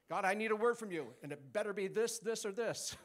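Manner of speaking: hammed-up entitled request; mock demanding prayer. Mocking demanding churchgoer's prayer.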